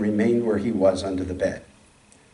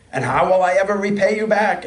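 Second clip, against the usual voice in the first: groaning; 7 semitones higher, 5 dB louder than usual. A narrator's reading.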